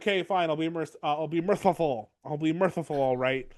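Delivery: lisped "merciful", the s turned to th; mock speech impediment. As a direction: say "merciful" with a put-on lisp. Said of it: "or that speech impediment".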